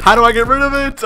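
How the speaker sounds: high-pitched frustrated question. Real, not acted. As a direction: voice jumps up, exasperated. Cannot remove the item.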